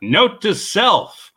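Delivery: slow, high deadpan "note to self"; lightly imitating a slow Weekend Update aside; Norm Macdonald impression. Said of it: "like Norm Macdonald used to do on Weekend Update".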